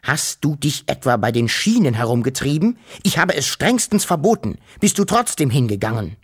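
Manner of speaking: etwas lauter, angedeutet donnernd. Acted. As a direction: schimpf streng los. (Vater donnert Wuschel am Kragen an)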